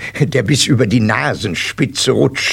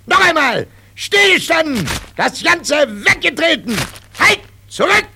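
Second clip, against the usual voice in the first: drill sergeant; 14 semitones higher than usual. Acted.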